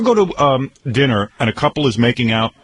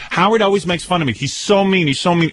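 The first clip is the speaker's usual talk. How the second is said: mocking whine; 4 semitones higher than usual. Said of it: "He's screaming the whole time".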